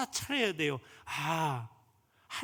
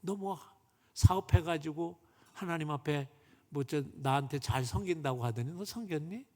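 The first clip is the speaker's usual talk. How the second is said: lower, lightly voiced reproachful God; mildly mock a broken promise; God rebuking; 3 semitones lower than usual. God rebuking the businessman's empty promises, lightly stern. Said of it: "이러시더래".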